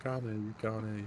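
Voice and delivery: giggling singsong tease; laughing tease. Retold or imitated. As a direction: laugh through a cheeky taunt. Teasing with laugh.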